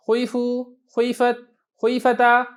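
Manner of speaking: खुईफू, खुईफत, खुईफता each with a light u-colour on the first vowel; teacher drilling the forms with a hint of u; ishmam demo. Shown as a demonstration. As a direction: round the lips slightly, never a full u. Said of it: "इशमाम जब आप करेंगे".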